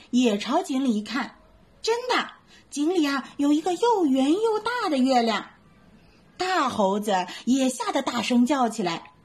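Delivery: lively bedtime story reading; storytelling for kids. A narrator's reading. Mom reading a bedtime story to little ones, lively.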